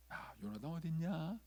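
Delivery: feigned casual, slow question; 불편함을 감춘 위장. Acted. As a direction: hide displeasure behind an unhurried question. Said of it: "불편하지만 위장을 하는 거예요". (아무렇지 않은 척 느릿하게)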